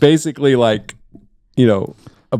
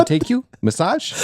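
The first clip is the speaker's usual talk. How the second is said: put-on higher Asian-accented shop lady; Asian accent imitation; 12 semitones higher than usual. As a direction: mimic her Asian-accented offer, rising. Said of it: "I can do the impression".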